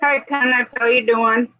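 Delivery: talking while crunching candy; words around a crunchy candy cane. Real, not acted. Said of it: "Sorry, I'm crunching on a candy cane".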